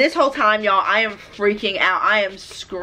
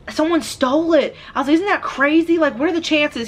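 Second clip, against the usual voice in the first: naive high-pitched disbelief; innocent, higher "isn't that crazy"; clueless self, higher; 6 semitones higher than usual. Retold or imitated. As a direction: play your oblivious past self, higher. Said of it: "And I was like".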